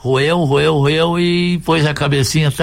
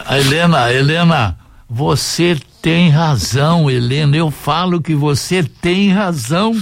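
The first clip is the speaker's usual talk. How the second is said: exasperated agreement; 4 semitones higher than usual. Real, not acted. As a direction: draw it out, higher, fed up with the joker. Exasperated reaction to the tasteless joke. (exasperação arrastada)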